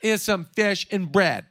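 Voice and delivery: whining. Retold or imitated. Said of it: "the vibe of the disciples".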